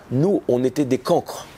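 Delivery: slow, lightly imitated Moroccan accent. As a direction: tell it slowly with a hint of Moroccan accent. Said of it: "son accent marocain".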